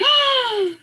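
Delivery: high-pitched stunned gasp; sharp, high intake of amazement; amazed gasp. Retold or imitated. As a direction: gasp in delighted recognition. Acting amazed reaction to film.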